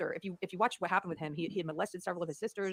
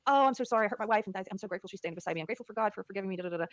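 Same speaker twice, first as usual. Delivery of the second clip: a touch of a mock sorry voice, pitched up; mocking fake apology. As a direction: lightly parody his hollow apology. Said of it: "issue another apology where he's like".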